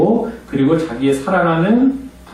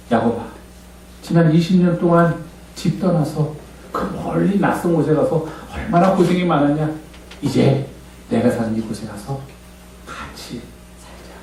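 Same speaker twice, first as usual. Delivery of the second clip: softer, fading to a hushed invitation; softer, tender Esau inviting Jacob; tender older brother; 4 dB quieter than usual. Acted. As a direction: welcome him home gently.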